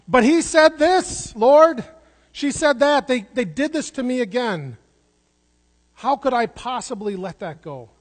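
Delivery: high, loud pleading complaint to the Lord; protesting inner voice. Acted. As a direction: cry out like a wronged child tattling. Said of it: "this voice welling up inside of me ... crying out".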